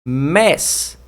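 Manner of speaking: "doméstico" split with long pauses; syllable by syllable. Shown as a demonstration. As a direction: give each syllable of "doméstico" alone. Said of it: "sílaba tônica". (sílaba por sílaba)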